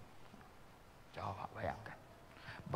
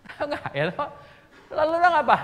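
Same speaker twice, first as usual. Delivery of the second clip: loud exclamation; 12 semitones higher, 12 dB louder, faster than usual. Real, not acted. Exclamation to congregation.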